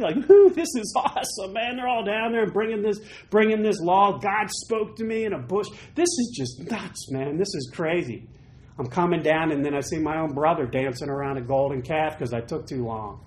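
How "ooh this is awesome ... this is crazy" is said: happy Moses. Retold or imitated. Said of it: "I'd be so happy".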